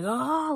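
loud, high mock "oh" of release; retold outburst, loud and high; imitated purging cry. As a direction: imitate a cry as it all comes out. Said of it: "she just started purging".

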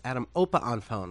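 lightly imitated thick Chinese accent. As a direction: retell it with a touch of Chinese accent. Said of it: "Chinese production director with a very thick accent".

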